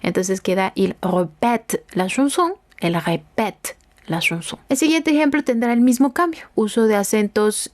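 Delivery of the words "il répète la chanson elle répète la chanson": "répète" with a stretched second E, silent ending; lengthened E. Shown as a demonstration. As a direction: hold the E in "répète", close on the T. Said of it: "la E alargada".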